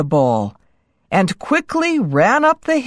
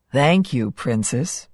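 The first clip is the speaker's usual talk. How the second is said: soft grateful prince; 5 semitones lower, 4 dB quieter than usual. A narrator's reading. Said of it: "he said".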